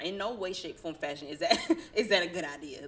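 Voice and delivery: laughing while insisting. Real, not acted. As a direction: laugh through the words. Laughing emphatic point.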